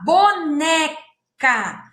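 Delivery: boneca drawn out syllable by syllable; teacher modelling the word slowly. Shown as a demonstration. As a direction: stretch boneca for the class. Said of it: "rima com boneca".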